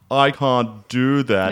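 slow, stiff imitation of a butler; lightly voiced snooty butler. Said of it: "In the most butler voice ever".

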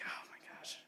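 barely audible whispered disbelief; dismayed whisper. Retold or imitated. Driver hears his taillight is busted, dismayed whisper. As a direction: whisper it under your breath in dismay. Reacting to grandpa's bad news.

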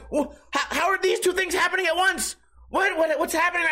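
high, bewildered panic; baffled cry of confusion. Pretend. Imagined victim baffled mid-disaster.

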